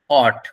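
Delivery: "অট" with open "o" and no w; pronounced অট. Shown as a demonstration. Teacher pointing out the pronunciation, "অট" demonstrated. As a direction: say "অট" as a lone model word. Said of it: "উচ্চারণ খেয়াল করুন এখানে".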